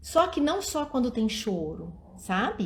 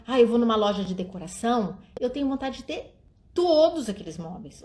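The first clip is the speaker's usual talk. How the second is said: plain. Shown as a demonstration. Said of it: "ou senão".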